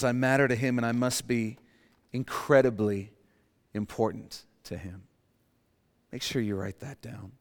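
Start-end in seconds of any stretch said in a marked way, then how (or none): 0.0-5.0 sincere statement. Shown as a demonstration. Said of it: "The blood of Jesus says".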